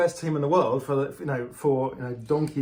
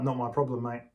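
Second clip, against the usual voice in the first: mock Aussie accent; 5 semitones lower, 5 dB quieter than usual. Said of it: "She didn't quite say it with that accent".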